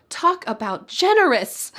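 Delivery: "generous" lifted high, then dropping; emphatic exclamation. Shown as a demonstration. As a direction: lean on "generous" to make the point. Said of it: "use this to emphasize".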